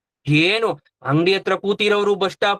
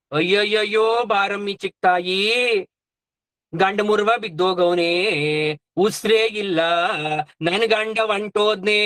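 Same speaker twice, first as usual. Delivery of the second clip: mock wailing. Wife crying out that her husband is gone, mock wailing. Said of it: "ಲಬ ಲಬ ಲಬ ಲಬ ಅಂತ ಬಾಯ್ ಬಡ್ಕೊಂಡ್ಬಿಟ್ರು".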